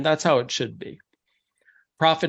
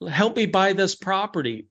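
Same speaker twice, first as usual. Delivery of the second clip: higher-pitched mock plea; begging; 5 semitones higher than usual. Buyer begging the bank for a loan, mock pleading. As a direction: plead lightly, imitating a desperate borrower. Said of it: "begging for a loan".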